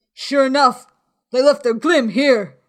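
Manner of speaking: loud, high pirate reply; calling from window. A narrator's reading. Fellow at window confirming to the beggar, high loud call. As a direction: shout it down to the street.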